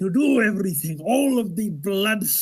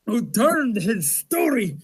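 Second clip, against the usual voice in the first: toes being bitten; 2 semitones higher than usual. Acted. Vampire climaxing monologue while toes are bitten off. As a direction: let the pain burst out at the end. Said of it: "someone is biting your toes off".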